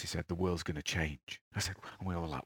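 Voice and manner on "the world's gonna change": slow, low, hushed prophecy; low and soft, drawn out; very quiet voice. Retold or imitated. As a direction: imitate a guru softly predicting. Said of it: "in a very quiet voice".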